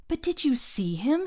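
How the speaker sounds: choking on disbelief; choked. A narrator's reading. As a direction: spit it out, barely holding back. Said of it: "he choked".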